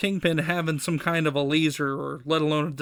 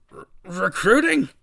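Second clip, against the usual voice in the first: stammer, then a loud rising squawk; incredulous, louder echo with a stumble; shocked stammer; 3 semitones higher, 6 dB louder than usual. Acted.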